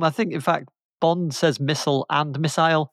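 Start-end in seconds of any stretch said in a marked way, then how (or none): 1.6-2.9 "missile" said first one way, then the other; both pronunciations. Shown as a demonstration. Showing Bond says both, "missile" in two pronunciations. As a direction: contrast two sayings of "missile". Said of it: "you hear both in the film".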